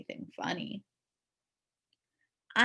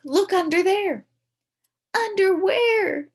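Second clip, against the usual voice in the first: sly setup; 13 semitones higher, 10 dB louder, slower than usual. Acted. Setting up underwear joke.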